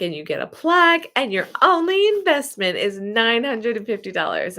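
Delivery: mock sales pitch.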